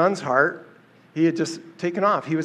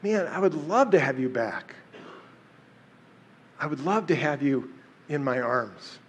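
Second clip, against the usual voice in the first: tender father; 3 dB quieter than usual. Retold or imitated. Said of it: "his heart toward a sinner".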